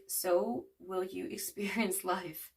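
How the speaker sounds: a real laugh breaking into the reading; slow reading interrupted by a laugh; laughing while reading. Real, not acted. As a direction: read it out, amused, with a laugh slipping in mid-sentence. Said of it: "I'm not laughing at you. I'm laughing".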